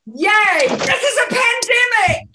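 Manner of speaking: beaming, gleeful shout; with joy. Shown as a demonstration. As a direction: cheer it out like great news. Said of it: "with joy".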